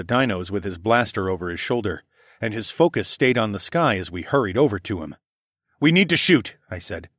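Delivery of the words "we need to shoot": high, loud urgent call; urgent shout. Acted. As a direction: push the plan over the chaos. Urgent plan under attack.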